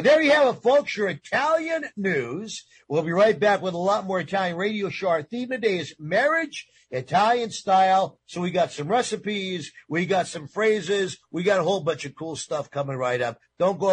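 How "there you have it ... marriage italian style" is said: radio host voice. Real, not acted. Radio host sign-off to break.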